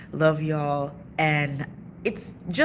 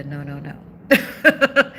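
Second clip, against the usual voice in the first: drawn-out slow, louder refusal; firm no; 3 semitones lower, 6 dB louder, much slower than usual. Retold or imitated. Telling her parents' old ways no, slow and loud. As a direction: stretch each no out, shutting it down. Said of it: "because I said".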